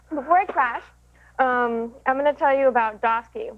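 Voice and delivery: talking while chewing candy; words round a mouthful of candy; mouth full. Real, not acted. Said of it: "I'm chewing".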